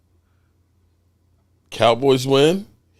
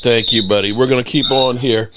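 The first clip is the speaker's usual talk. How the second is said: lips burning. Real, not acted. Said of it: "my lips are on fire for you".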